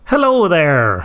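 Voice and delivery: drawn-out, put-on South African greeting; hammed-up South African accent, stretched out; mock South African accent. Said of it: "why is he doing South African?".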